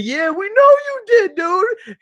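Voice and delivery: high-pitched mock "yeah, we know"; high, drawn-out retold chorus; retold group reply. Retold class jeering teacher's claim.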